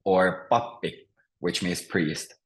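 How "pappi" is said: pappi with the stress on PAP; first-syllable stress. Shown as a demonstration. Teacher gives Finnish example for priest, stress on first syllable. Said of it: "it's always on the first syllable".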